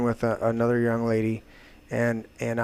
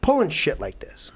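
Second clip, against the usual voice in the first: fast, higher and louder tirade; retold yelling; 5 semitones higher, 4 dB louder than usual. Scolding the girl who trashed his place, furious yelling. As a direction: tear into her, word after word. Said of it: "and I lit into her".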